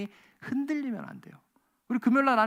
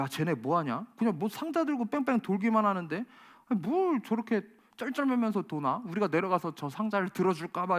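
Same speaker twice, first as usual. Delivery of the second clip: mocking sneer. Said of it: "서로 비아냥거렸을 거예요".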